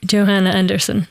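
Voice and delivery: name said in American English; American accent. Shown as a demonstration. Guest answering for someone from Detroit, American accent. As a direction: Johanna with an English J, American style. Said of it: "om människan är från Detroit".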